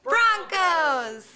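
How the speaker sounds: shouted team name; cheer reply. Acted. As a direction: answer the cheer, drawing out Broncos. Answering the call-and-response cheer.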